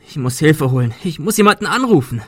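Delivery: panicked shout. Acted. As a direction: scream for help in terror. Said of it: "schrie Adrian".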